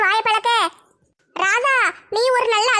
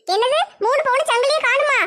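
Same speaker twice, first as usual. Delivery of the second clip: shocked; 5 semitones higher than usual. Acted. Shocked at lost chain.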